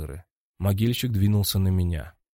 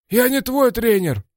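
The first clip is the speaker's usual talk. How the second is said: higher, louder, slow grumble; grumbling; 13 semitones higher, 7 dB louder than usual. A narrator's reading. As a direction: grumble it back, annoyed. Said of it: "пробурчал Орлам".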